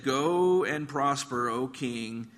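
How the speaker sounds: slow, drawn-out mock blessing. Prophet humouring the king about going to war, mildly mocking. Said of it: "You can kinda hear that tone in his voice".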